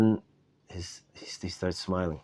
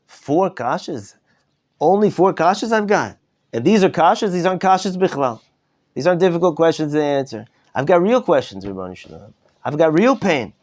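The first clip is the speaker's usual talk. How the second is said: a pleading rebbe whose questions pour out louder and higher; emotional plea to God; 8 semitones higher, 4 dB louder than usual. Retold or imitated. Rebbe at the Seder pleading with God, rising to anguished cries. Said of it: "really emotional".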